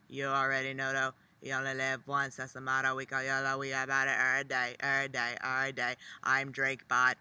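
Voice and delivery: low, flat robotic rap imitation; monotone rapper imitation. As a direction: drone it like a robot rapper. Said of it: "this quite monotone voice".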